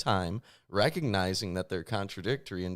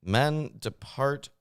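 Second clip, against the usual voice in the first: slow, solemn Bible reading; scripture reading; 3 semitones higher than usual. Acted. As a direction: read it out like scripture, slowly. Reads proverb aloud.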